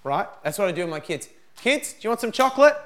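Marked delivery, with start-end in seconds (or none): 1.6-2.8 high, loud, quick sing-song offer; cheery bribe. Acted. Dad offers the kids chocolate to test them, high bright call. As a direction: dangle the treat brightly.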